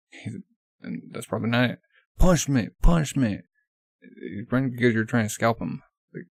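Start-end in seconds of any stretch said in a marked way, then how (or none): 2.2-3.4 mock crowd calling for punishment, a bit louder; lightly hammed-up call to punish; acted outcry. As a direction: call it out as a pretend angry pursuer.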